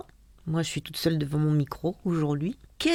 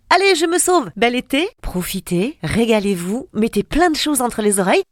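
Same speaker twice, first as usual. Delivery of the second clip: cheerful; 5 semitones higher, 6 dB louder than usual. Acted. Cheerful sign-off.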